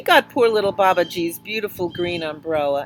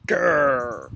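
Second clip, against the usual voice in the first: growl; 4 semitones lower than usual. A narrator's reading. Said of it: "the tigers only answered".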